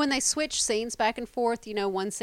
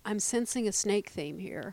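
whispered wry aside, much softer; playful whisper; 7 dB quieter than usual. Real, not acted. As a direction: murmur it like a shared joke. Wry aside about snakes.

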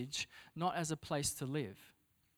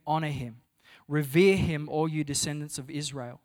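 loud, building proclamation of praise; proclaiming praise; 8 dB louder than usual. Acted. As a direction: declare it to the assembly. Reading psalm of praise.

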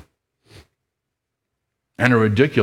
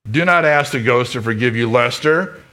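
higher, mildly raised, insistent; stern head mouse; 5 semitones higher than usual. Acted. Head mouse scolding Lester, mildly raised. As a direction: lay down the rule to Lester. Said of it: "shouted the head mouse again".

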